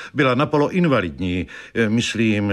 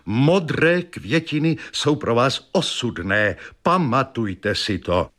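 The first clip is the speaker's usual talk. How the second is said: seer's warning; 3 semitones higher than usual. Acted. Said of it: "vykřikla".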